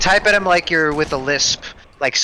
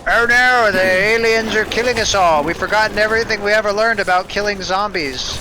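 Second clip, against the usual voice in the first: mock panic; 5 semitones higher than usual.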